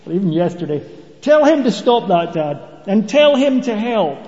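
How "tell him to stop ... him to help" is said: lightly imitated child telling on a sibling, higher; complaining kid. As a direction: appeal to Dad like a put-out kid. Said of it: "sounds exactly like what my kids used to do".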